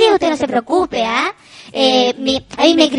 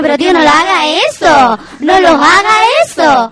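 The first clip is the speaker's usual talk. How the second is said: mock pleading; 4 dB louder than usual. Embarrassed kids to uncle honking the horn, mock pleading. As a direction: plead with him to stop, lightly acted.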